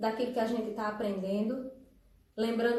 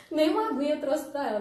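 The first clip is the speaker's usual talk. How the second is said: quick, laughing aside, a little higher; 4 semitones higher, 4 dB louder, much faster than usual. Real, not acted. Joking about the tired interpreter, laughing quickly. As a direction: chuckle through the joke.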